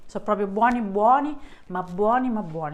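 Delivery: talking with a full mouth. Real, not acted. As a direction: say it while still chewing. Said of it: "C'ho la bocca piena pure io".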